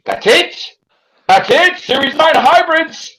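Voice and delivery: high-pitched, incredulous questioning; mock disbelief. Viewer reacting to a letdown episode, high mock disbelief. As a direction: imitate a baffled viewer, pitch shooting up.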